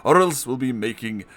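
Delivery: high, loud cackling villain; insane vampire gangster. Acted. Vampire gangster taunts Garfield with a ransom demand, loud crazed voice. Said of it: "That is a really insane voice I just did".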